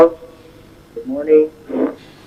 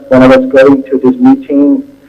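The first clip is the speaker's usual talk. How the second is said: muffled, mic too close to mouth. Real, not acted. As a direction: speak through a muffled mic. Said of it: "Your sound is a little muffled".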